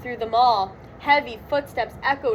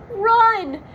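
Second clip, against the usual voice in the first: loud high urgent shout; 9 semitones higher, 5 dB louder than usual. Acted. Shaggy tells Scooby to flee, loud urgent shout. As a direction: yell it as you bolt. Fleeing the mummies.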